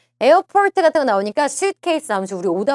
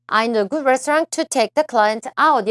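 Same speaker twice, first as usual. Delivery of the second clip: slow reading; much slower than usual. Shown as a demonstration. Teacher reads answer option slowly.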